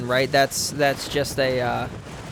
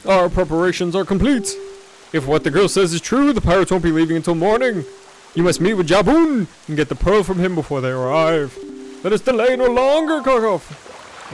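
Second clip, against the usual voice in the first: commanding character voice; 3 semitones higher than usual. Acted. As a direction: project it like a leader issuing orders. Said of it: "I don't remember what voice I gave him".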